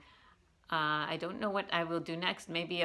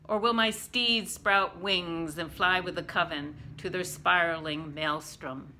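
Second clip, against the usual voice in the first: measured recital, each line falling away; poetry reading. Acted. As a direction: read the poem line by line, letting endings drop. Reads own poem aloud.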